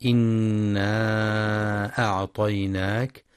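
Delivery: إنا أعطيناك with the alif held four or five beats; slow madd recitation; long madd. Shown as a demonstration. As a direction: draw out the vowel of إنا before أعطيناك, slowly. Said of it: "وللمد المنفصل".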